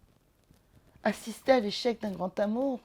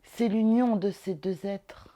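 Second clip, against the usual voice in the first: measured declamation with pauses between items; literary recitation; 3 dB louder than usual. Acted. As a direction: recite it word by weighty word, falling away at the ends. Recites a passage by Musset.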